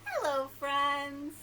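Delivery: slow, friendly sing-out greeting; nicely. Shown as a demonstration. Storytime host greets little friends at rhyme's end, nicely and slowly. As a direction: greet them as nicely as you can. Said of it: "Let's say hello as nicely as we can".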